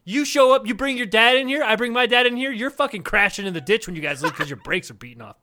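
mock tough guy. Grade-school dad threat.

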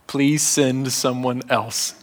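drawn-out, begging please; slow pleading Moses. Acted. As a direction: plead with God to send another. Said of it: "My favorite is the fifth".

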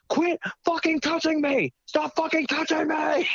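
high, whiny imitation of his own yelling; mock high whine. Mocking his own complaint to the bar owner, high whine. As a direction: parody yourself screeching at her. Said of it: "He's like".

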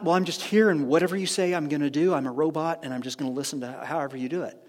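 quick, tossed-off resigned submission; mock passive compliance. Preacher mimicking a purely passive prayer to God, mock compliant.

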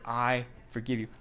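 preacher voicing grieving families, very soft; quiet forgiveness. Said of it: "He said".

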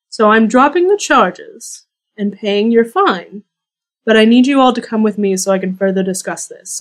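lightly voiced, measured elf lord; elf lord Mycen.

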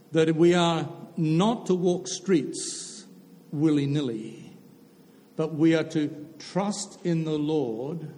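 slow, deliberate sermon cadence; preaching. Acted. Preacher telling the congregation to trust the Lord, slow and deliberate. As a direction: spell out the lesson word by word, slowly.

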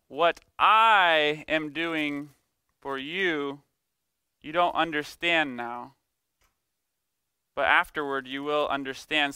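"I" और "you" पर ज़ोर, "What I am doing" बहुत धीमा; stress on I and you. Retold or imitated. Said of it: "emphasis on the I and you".

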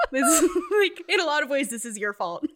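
high, loud, teary laugh-cry; tired traveller crying at mom; laughing through tears. Retold or imitated. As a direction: blame her while half sobbing, half laughing. Crying, blaming mom on the phone.

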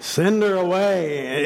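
drawn-out, slow mock plea; mock begging. Disciples begging Jesus to dismiss the woman, mock pleading. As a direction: imitate whining followers wanting rid of someone. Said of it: "they begged him".

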